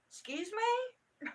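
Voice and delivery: loud, drawn-out, high-pitched challenge; acted indignation. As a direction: stretch it out as an affronted comeback. Retold indignant reply to teacher.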